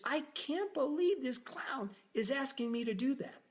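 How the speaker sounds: high, agitated disbelief; freaking out. Retold or imitated. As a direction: fume in a panicked rush. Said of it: "seen me still freaking out".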